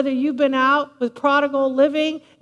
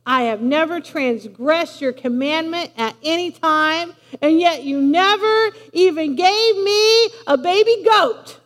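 mock a complaining son, rising to the end; whiner. Older son complaining to his father, whining. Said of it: "Talk about a whiner".

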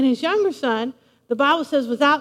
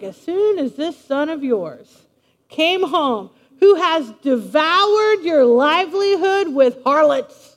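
little fit; 3 dB louder, slower than usual. Acted. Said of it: "the son's throwing his little fit".

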